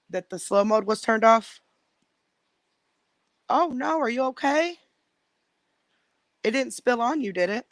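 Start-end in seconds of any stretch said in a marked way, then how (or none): 3.5-7.7 talking while out of breath; breathless after chasing the dogs. Real, not acted. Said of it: "Y'all, I'm so out of breath".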